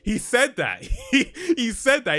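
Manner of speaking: cracking up in disbelief as you repeat it; laughing. Real, not acted. Laughing while telling viewers what the salesman said.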